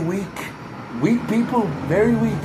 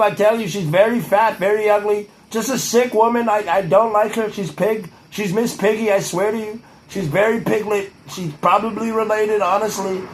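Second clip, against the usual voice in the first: a hint of a blustering politician; Trump-style ramble; 4 semitones higher than usual. Rambling to the camera as a blustering politician, lightly voiced. Insulting Rosie in character.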